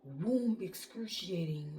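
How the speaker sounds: slow drawn-out wailing words; imitating an anguished scream; mock wail. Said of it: "screaming like these".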